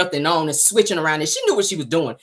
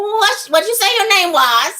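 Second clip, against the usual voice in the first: much higher, slow, drawn-out put-on voice; Simon's slow talk; 12 semitones higher than usual. Mocking Simon asking Portia her name, slow and high. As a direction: stretch every word like a slow old sage. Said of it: "that's how he talk. Like Yoda".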